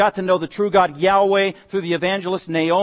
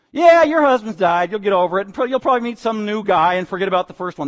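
cold and callous; 2 semitones higher, 4 dB louder than usual. Retold or imitated. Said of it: "That's what she's saying".

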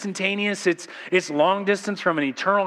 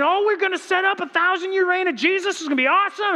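1 mock eager believers; 11 semitones higher than usual. Reformation believers quoted.

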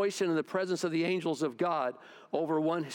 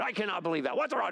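mock griping; 3 semitones higher, faster than usual. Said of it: "gonna start griping".

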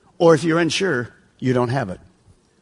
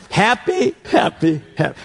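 lightly imitated catchphrase, first word pitched up; Phil Robinson; 3 semitones higher than usual. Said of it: "He says it like this".

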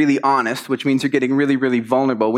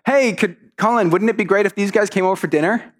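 lightly voiced parent, pitched higher; prompting parent; 6 semitones higher than usual. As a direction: coax a polite yes out of the child. Parent prompts child for polite answer.

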